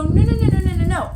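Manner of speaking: put-on cling to it like a child refusing; whiny refusal. Person clinging to their bullshit.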